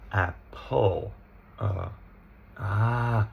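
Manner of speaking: "apple" split into AP-pull, then uh drawn out; schwa demonstration. Shown as a demonstration. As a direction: isolate the uh inside "apple". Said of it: "there's the schwa".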